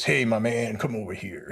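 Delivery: lightly voiced old soldier calling him over; a hint of a casual old-timer's hail; Mr. Lupiak's greeting. Retired soldier hailing a young graduate, lightly imitated. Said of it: "he always talks like this".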